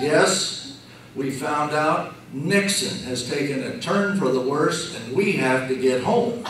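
deadpan excuse, retold; straight-faced. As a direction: imitate a straight-faced cover story. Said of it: "in the straightest face I've ever seen".

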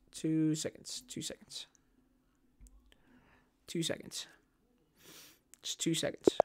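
unvoiced whisper, very soft. Real, not acted. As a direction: whisper it to yourself. Whispering while calming.

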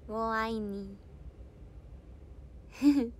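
ウォーアイニー stretched very slowly in Mandarin; drawn-out Mandarin ウォーアイニー, each syllable held; careful Chinese. Shown as a demonstration. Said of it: "台湾の方も中国語で平気なのかな".

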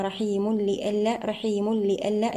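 "رحيم لئلا" as "rahiimul-li'allaa"; joined without ghunna. Shown as a demonstration. Teacher showing joined reading, "رحيم لئلا" with doubled lam. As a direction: merge the tanween of "رحيم" straight into the lam of "لئلا". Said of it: "إذا وصلناها".

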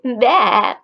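lightly bleated baa; sheep baa. Shown as a demonstration. Teacher shows kids how sheep sound. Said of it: "and they say".

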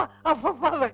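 high laughing exclamation; father laughing off the scare. Acted. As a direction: laugh it out in relief.

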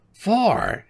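put-on high old-wife voice; high-voiced grumbler; scolding wife. A narrator's reading. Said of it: "she said".

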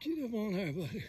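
hushed whisper to the dog; whispered urging to a hound. Real, not acted. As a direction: breathe it without voice so the stand can't hear. Hunter whispers near tree stand.

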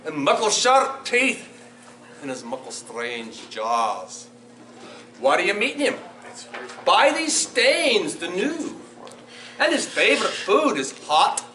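put-on animated children's storytime in Scottish dialect; lilting, theatrical Scots storyteller; Scots story reading. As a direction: read it to children in broad Scots, with big swings. Reads Gruffalo aloud in Scots.

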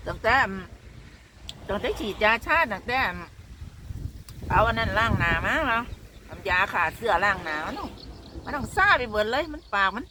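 talking with a numb, swollen mouth; words slurred by a numbed mouth. Real, not acted. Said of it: "คือจังปากเฮาน่ะ มันบานพื้อ".

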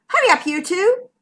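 high, hurrying call. A narrator's reading. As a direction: call the stragglers along. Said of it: "called McMeer".

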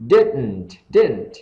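DIDN'T with the T cut short; short I in "didn't", then stop the T. Shown as a demonstration. Teacher drills didn't for learners, T cut off. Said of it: "chúng ta ngắt cái âm thi".

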